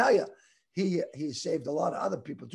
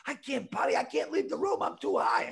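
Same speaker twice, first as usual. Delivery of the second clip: imitated freak-out; 5 semitones higher than usual. Stoned buddy refuses to leave the room, mock freak-out. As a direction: play a friend freaking out, lightly. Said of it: "My buddy freaks out".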